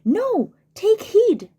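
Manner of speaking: voicing the conscience. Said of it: "My conscience says".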